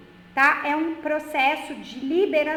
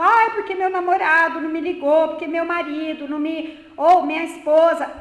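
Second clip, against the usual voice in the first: whiny mock lament; 6 dB louder than usual. Mocking whiny crying.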